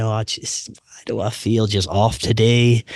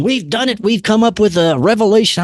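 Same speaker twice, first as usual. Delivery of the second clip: future scientist self; 9 semitones higher than usual. Retold or imitated.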